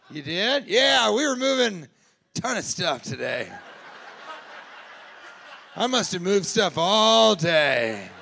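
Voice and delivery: a hint of a proud simple guy; lightly voiced dopey son. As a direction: son boasting about his job. Voicing the mover son.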